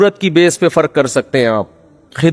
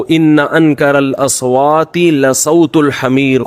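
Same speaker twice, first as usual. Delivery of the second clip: Quran recitation. Real, not acted.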